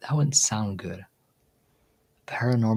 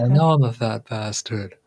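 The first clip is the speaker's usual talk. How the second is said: parrot imitation; 6 dB louder than usual. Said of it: "the parrot just goes".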